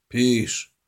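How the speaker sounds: impatient yell at the chat; yell at screen. Acted. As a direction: shout at the screen to make her type. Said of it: "wrzasnął w ekran".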